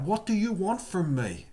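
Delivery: a high, pleading mock cry to the vision. Saul on the road, crying out to Jesus in fear. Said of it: "Saul crying out".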